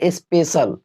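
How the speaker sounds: स्पेशल with a plain s-sound, ending "-sal"; pronunciation demo. Shown as a demonstration. Teacher showing students how to read the word, careful demo. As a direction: say स्पेशल in two beats, "es-pe-sal". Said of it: "क्या पढ़ेंगे?".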